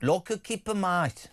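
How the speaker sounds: a rough attempt at a Brummie accent; deliberately crap Brummie accent; Birmingham accent. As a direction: read the listener's text in a bad Brummie accent. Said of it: "It was a crap accent".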